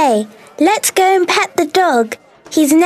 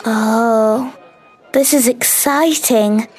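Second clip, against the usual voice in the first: excited; 13 semitones higher, slower than usual. Acted. Arriving in Scotland, thrilled child.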